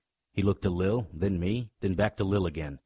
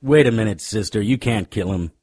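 loud urgent interruption; shouting; 3 semitones higher, 9 dB louder than usual. Acted. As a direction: cut in hard and loud. Detective stops the killing.

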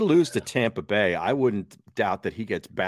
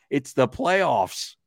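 very slow, deadpan scoff; sarcastic disbelief; 3 semitones higher, much slower than usual. Real, not acted. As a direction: let the absurdity hang in a slow drawl. Sarcastic aside after the quote.

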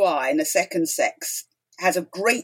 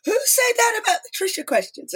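startled, surprised; 14 semitones higher than usual. Retold or imitated. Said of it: "they wheeled round and they said".

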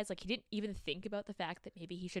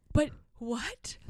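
high, breath-only disbelief; stunned whisper; 7 semitones higher, 4 dB louder than usual. Retold or imitated. Woman hearing the hand will grow back, stunned whisper. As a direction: whisper it as if dumbfounded. Acted stunned reply in retelling.

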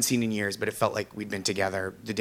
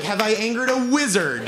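mock bewilderment; 10 semitones higher, 5 dB louder than usual. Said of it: "I was like".

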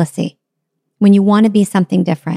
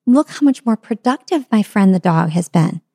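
ordinary talk, nothing marked

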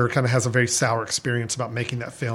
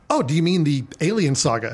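high-pitched nasal voice; 2 semitones higher than usual. Retold or imitated. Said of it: "a little more high-pitched, uh, nasally voice".

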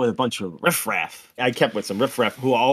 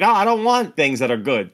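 higher-pitched, mildly pleading character voice; naive wisher; 4 semitones higher, 4 dB louder than usual. Acted. Man turning down a genie's wish, mild mock plea. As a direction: voice a simple wish-maker. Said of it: "and he's like".

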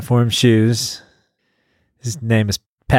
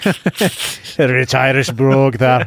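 Irish brogue; much slower than usual. Pretend. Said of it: "here's the Irish brogue".

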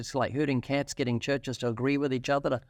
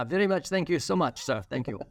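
put-on Chinese accent. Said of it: "Do a Chinese accent".

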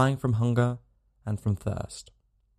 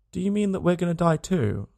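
put-on tearful child; 7 semitones higher than usual. A narrator's reading. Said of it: "checking her sobs".

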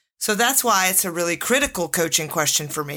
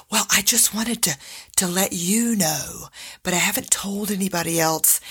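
imitating a secretive, nervous whisper; hushed whisper. Employee confiding a secret pregnancy behind a closed door, whispering. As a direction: keep it down as if someone's listening. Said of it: "kept her tone down as if someone were listening".

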